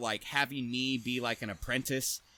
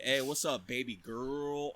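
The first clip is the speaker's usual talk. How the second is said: mock flirty greeting; slower than usual. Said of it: "I'm just kidding".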